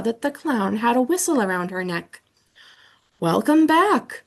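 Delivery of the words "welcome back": slow, louder, hearty greeting; mad scientist voice. Acted. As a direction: boom it out like the principal. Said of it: "sounded just like Mister Morales".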